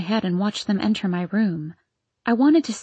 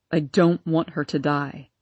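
choked sob; 5 semitones lower than usual. Acted. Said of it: "sobbed, choked out".

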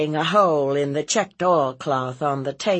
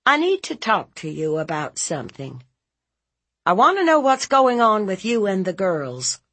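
brisk, insistent, rising in force; probing aunt; 7 semitones higher, 4 dB louder, faster than usual. Acted. Aunt opening a talk about girls, firm and quick. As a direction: press him with quick firm words. Narrator voices questioning aunt.

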